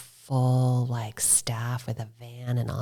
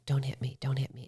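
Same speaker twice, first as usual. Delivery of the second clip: quiet prayer; 7 dB quieter than usual. Retold or imitated. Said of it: "and I'm praying".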